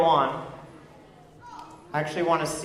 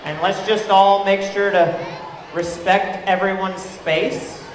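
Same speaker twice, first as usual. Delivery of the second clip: raised voice over the music; calling out loud; 2 semitones higher, 4 dB louder than usual. Real, not acted. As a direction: call it out to the whole room. Calling out to a dancing crowd.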